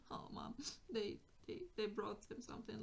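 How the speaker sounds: softly whimpered complaint after a gasp; mock crying child. Child complaining to Mom about a present, lightly acted crying. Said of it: "and she's crying".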